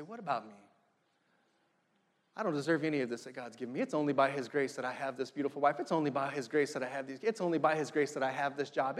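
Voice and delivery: soft, low, grateful humility; hushed, low reflection on undeserved grace; humbled self-questioning. Acted. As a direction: confess it quietly, as if unworthy. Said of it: "where we begin to say".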